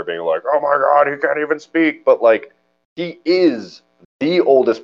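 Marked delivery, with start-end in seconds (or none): 0.5-2.0 mock hardcore conservative. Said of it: "I'm not going, like, hardcore conservative here".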